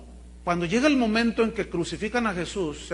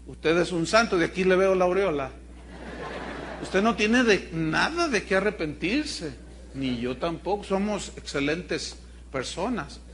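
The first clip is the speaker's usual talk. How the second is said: ironic praise. Acted. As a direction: tease the congregation with irony.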